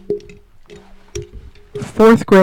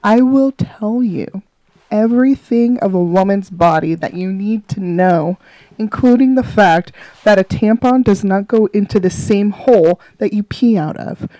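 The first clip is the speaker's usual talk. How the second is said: mock serious. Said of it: "I'm trying to be serious".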